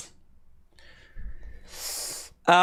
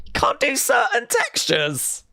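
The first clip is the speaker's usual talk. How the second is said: incredulous, teasing whisper, pitched up; mock whisper; 7 semitones higher than usual. Host whispers back a viewer's picky-eater comment, mocking. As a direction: hush it like a scandal, mocking.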